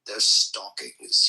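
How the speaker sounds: Grinch voice. Acted. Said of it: "I can't deal with the voice".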